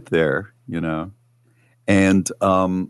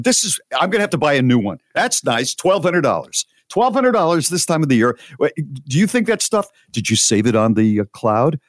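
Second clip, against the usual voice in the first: higher, agitated retold rant over the cost; frantic rant; 6 semitones higher than usual. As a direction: replay your own panic about the lost phone. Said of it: "I'm becoming frantic".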